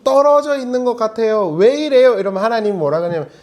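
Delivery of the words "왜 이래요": higher, louder cry of frustration; exasperated protest. Retold or imitated. Believer protesting to God, loud and exasperated. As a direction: throw the question up at God.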